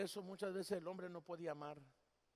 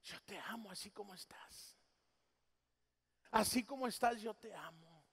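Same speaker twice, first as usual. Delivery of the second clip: tender whisper of Jesus. Retold or imitated. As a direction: whisper it as a loving embrace. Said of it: "me dijo". (susurro tierno de Jesús)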